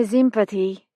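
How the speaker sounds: sympathy said with a buzzing z: zimpathy. Acted. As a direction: start sympathy with a z sound. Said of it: "pronouncing it zimpathy".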